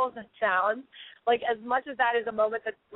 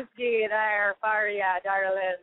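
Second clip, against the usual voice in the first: slow, drawn-out bad Scottish brogue; terrible Irish-Scottish accent; slower than usual. Guest offers the host whiskey, in a terrible Irish-Scottish accent. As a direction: put on a badly faked Irish-Scottish lilt. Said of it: "that was a terrible accent".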